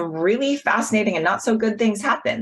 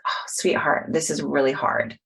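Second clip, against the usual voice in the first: hushed reassuring words to oneself; tender self-compassion; 2 semitones lower than usual. Retold or imitated. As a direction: comfort yourself like a hurting friend. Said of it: "a moment of compassion where I was like".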